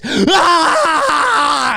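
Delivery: loud high excited yell; fan yell. Retold or imitated. Young guys at a Marvel screening, loud excited yell. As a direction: holler like a hyped fan. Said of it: "twenty-one-year-old guys".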